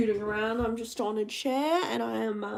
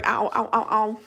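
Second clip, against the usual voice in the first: stubbed toe; 2 semitones lower, 5 dB louder than usual. Real, not acted. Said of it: "I just stubbed my toe".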